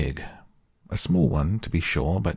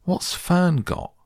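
put-on very high, drawn-out boyish demand; 13 semitones higher, 3 dB louder, slower than usual. A narrator's reading. Brother asking about his sister's surprise, demanding. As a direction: pipe up high and slow, demanding to know. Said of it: "he demanded".

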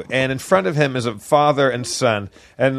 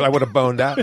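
laughing quote. Retold or imitated. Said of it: "one of my favorite phrases".

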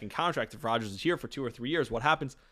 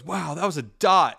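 higher, louder gleeful brag; excited boast; 4 semitones higher, 6 dB louder than usual. Retold or imitated. Zach Wilson running upfield after the bomb, excited boast. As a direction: crow about the throw. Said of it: "he goes".

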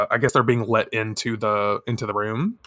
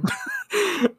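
high laugh; 4 dB quieter than usual. Real, not acted. Laugh at has-been line.

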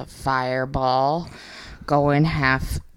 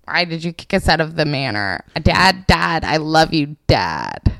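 put-on pestering child; 3 semitones higher than usual. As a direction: keep nagging Dad for help. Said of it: "every day he would say".

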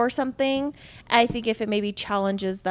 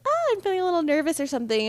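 mock nervous; 7 semitones higher, faster than usual. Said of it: "maybe, like, when I'm, like".

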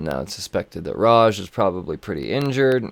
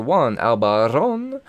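mock Spanish accent; slower than usual. Shown as a demonstration. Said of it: "I don't know why I said it like that".

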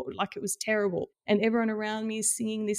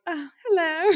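high, loud sing-song hello; a cheery couple's sing-song hello; chirpy greeting; 10 semitones higher, 7 dB louder than usual. Retold or imitated. Mimicking the fresh-faced couple greeting her. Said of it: "beautiful fresh face couple turn around like".

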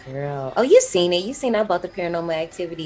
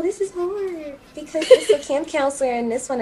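laughing while talking; 10 semitones higher than usual. Real, not acted.

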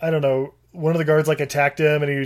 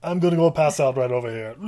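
put-on loud drunk Conan; 2 semitones higher, 4 dB louder than usual. Drunk Conan voiced in recap.

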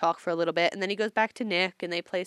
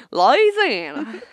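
laughing; 6 semitones higher, 8 dB louder, much slower than usual. Real, not acted.

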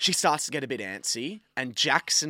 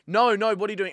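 raised, higher-pitched mock yell; retold yelling; 7 semitones higher, 6 dB louder than usual. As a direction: call out in alarmed protest. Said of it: "I'm yelling back at her".

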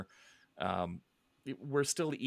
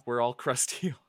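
laughing self-mockery; 4 semitones higher, 3 dB louder than usual. Real, not acted. Laughs while mocking fans' age.

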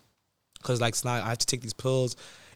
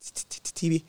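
shocked stammer; 5 dB quieter, faster than usual. Retold or imitated. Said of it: "So I said".

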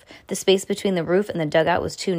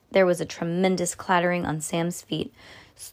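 ordinary delivery, nothing marked

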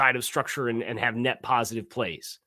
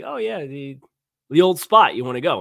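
sarcastic mock-casual invitation, rising in the middle; tongue in cheek; 2 semitones higher, 6 dB louder than usual. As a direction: tease with a fake-innocent suggestion. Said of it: "asking her tongue in cheek, sarcastically".

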